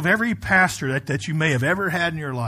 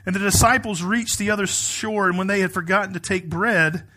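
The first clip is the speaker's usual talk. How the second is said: raised, emphatic pulpit reading voice; scripture reading; 3 semitones higher than usual. Acted. Pastor reading the Gospel to his congregation, emphatic scripture reading. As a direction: read it out firmly to a congregation.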